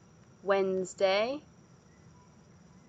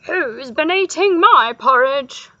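loud, raised-pitch howl; howling mother bear; 5 semitones higher, 13 dB louder than usual. A narrator's reading. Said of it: "howled Mother Bear".

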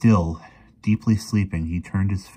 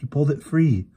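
high, shocked insistence; alarmed, pleading objection; gasped protest; 9 semitones higher, 4 dB louder than usual. A narrator's reading. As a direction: gasp it, clinging to disbelief. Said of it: "she gasped".

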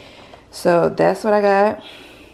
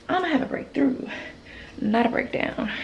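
quoted mantra; 6 semitones higher, 7 dB quieter than usual. Retold or imitated.

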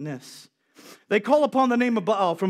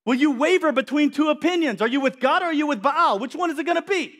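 challenging the people; 5 semitones higher than usual. Retold or imitated. Elijah challenging the wavering people, raised. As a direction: press the crowd, raised voice. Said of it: "He's like".

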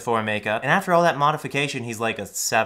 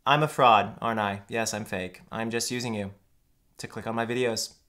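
fake crying; 4 semitones lower, 5 dB quieter than usual. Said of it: "Even the crying's".

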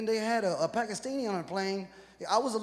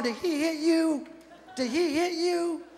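higher, slow fussing worry; concerned white bystander; 6 semitones higher, slower than usual. Acted. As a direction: lean in all concerned. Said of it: "White people wanna stop the van".

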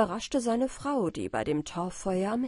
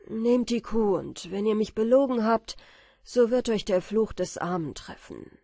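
louder desperate threat; 5 dB louder than usual. Acted. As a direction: fling the words out in despair. Michael in despair, threatening. (verzweifelt und lauter)

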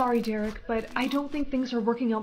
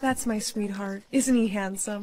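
loopy on candy; 5 semitones lower than usual. Acted. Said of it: "the cotton candy made you loopy".

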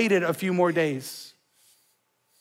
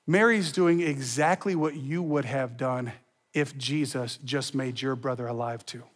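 much softer and lower, sincere; tender, hushed; 8 semitones lower, 6 dB quieter than usual. Real, not acted. Tender turn after party voices.

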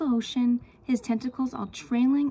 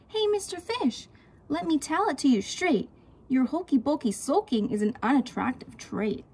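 high octopus voice; 4 semitones higher than usual. Acted. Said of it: "Says the fish to his friend".

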